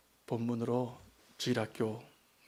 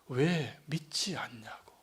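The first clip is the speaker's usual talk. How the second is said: whisper; 2 semitones lower, 4 dB quieter, slower than usual. Retold or imitated. Jesus' true rebuke, gently put.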